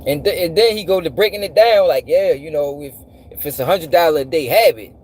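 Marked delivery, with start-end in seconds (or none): 2.1-4.9 low, matter-of-fact mimicry; straight-faced explanation. Man imitating a speaker breaking down dubious maths, straight-faced. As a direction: imitate someone calmly reasoning out nonsense. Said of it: "He said that shit with a straight face".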